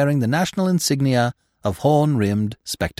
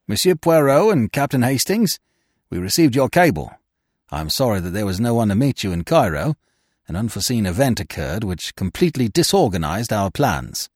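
Tosswill. Acted. Voices the British expert greeting them.

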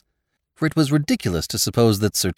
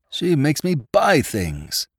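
moaning; 5 semitones higher, slower than usual. Acted. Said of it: "was overheard to moan".

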